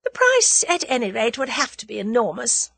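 high, airy lady's voice; light, playful provocation; said lightly. A narrator's reading. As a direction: toss it off lightly, teasing. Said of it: "she said lightly".

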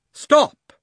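high furious shout; witch's cry. Acted. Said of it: "cried the witch".

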